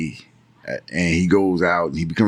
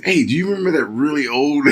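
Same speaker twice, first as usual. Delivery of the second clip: Tom Holland; 6 semitones higher than usual. Retold or imitated. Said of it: "his accent was so on point".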